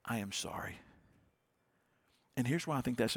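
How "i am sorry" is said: sincere apology. Real, not acted. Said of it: "want to say today as your pastor".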